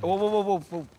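loud, high whoas; urgent halt. Acted. Man loudly calling the group to a halt. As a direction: stop everyone dead in their tracks.

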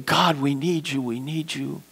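soft, fading plea of weeping worshippers; imitating crying prayer. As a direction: echo their tearful cry to God, hushed. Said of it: "they're crying and they're weeping and they're saying".

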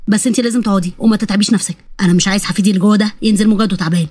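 low-pitched, caring father-in-law; fond grandfather-to-be. Acted. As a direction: fuss over her in a low voice.

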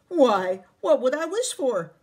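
loud exasperated question; indignant. Acted. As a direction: bristle at the offer. Jamie asks, indignant.

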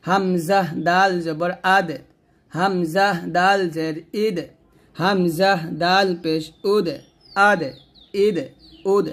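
আদ, ইদ, উদ with a bounced, released d; echoing qalqala dal. Shown as a demonstration. Teacher drilling dal for learners, slow with bouncing stops. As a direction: spell slowly and echo each final d. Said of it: "কলকলা হবে".

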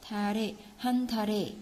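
quick "한 달에", ㄹ carried into the vowel; linked reading. Shown as a demonstration. Teacher repeating the linking for learners, "달에" as "da-re". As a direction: run "달에" together as "da-re". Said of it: "đọc nối nè".

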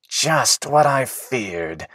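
hushed and breathless. Acted. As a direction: gasp it out, short of air. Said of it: "said Willis breathlessly".

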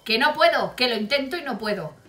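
firm, insistent reply; a touch sterner, no shouting. Retold or imitated. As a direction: put your foot down, still controlled. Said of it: "Poniéndome más seria digo".

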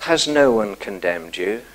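soft, low and gentle question; Jesus gently asking the woman. A narrator's reading. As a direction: ask it tenderly, as if to a frightened woman. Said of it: "very gently says to her".

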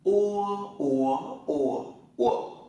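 "Ua" gliding u into a rounded vowel, through four tones; o read as "ua". Shown as a demonstration. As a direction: drill "ua" high, rising, dipping, then falling. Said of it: "tập lại nào". (đọc "ua" qua bốn thanh điệu)

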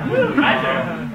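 put-on very high, loud excited baby voice; high giggling toddler voice. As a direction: squeal it like a little baby.

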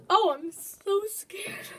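slow, breathy frightened whisper; scared whisper. Real, not acted. Gamer whispering his fear before the match, slow and scared. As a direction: hush it out like you're terrified. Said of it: "Did I sound like a stupid girl?".

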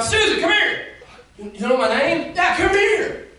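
high, loud, joyful call; calling her back. Acted. Jesus calling the mocked woman to come, loud and high. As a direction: call her over with delight.

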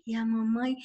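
ordinary delivery

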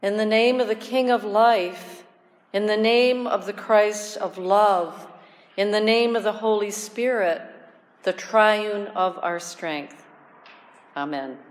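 measured liturgical blessing, slowing at the close; solemn blessing. Acted. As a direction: intone it like a priest blessing the congregation. Opening trinitarian blessing.

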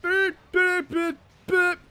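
beeping noise. Pretend. Mocking the fleeing monster.

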